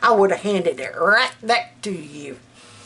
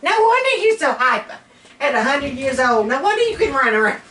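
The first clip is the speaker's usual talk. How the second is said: teasing exclaim; 4 semitones higher, faster than usual. Retold or imitated. Teasing old lady in scene.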